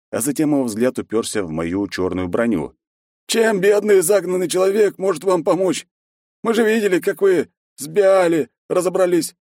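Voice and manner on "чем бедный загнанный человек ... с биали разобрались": humble village elder. A narrator's reading. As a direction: play the poor hunted man. Voit belittles himself.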